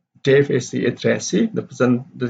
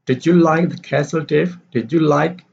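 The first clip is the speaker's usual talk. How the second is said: LIKE stressed in a raised question; 3 semitones higher than usual. Shown as a demonstration. Mother asking Dave, stress on LIKE. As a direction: lean on "like", the verb. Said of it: "here is stress because this is a verb".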